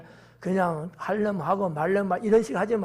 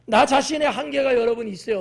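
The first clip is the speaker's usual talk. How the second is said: normal talking voice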